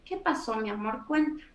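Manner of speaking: put-on soft, gentle questions to a child; tender parent. Shown as a demonstration. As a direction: coax the child softly to talk. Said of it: "validar la emoción".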